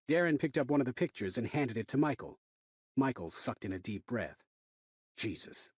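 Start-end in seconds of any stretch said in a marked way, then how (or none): 5.2-5.7 breathless whispered shock. Acted. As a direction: breathe it out in horror. Shocked at gory picture.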